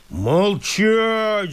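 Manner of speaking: высокий резкий окрик лесника, но не громче обычного; прикрикни сверху; громовой окрик. Acted. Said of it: "загремел лесник". (лесник гремит на мужика)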